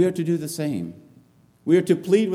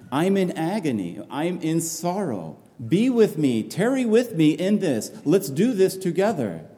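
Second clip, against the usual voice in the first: pleading Jesus; 5 semitones higher than usual. Acted. Jesus pleading again with disciples.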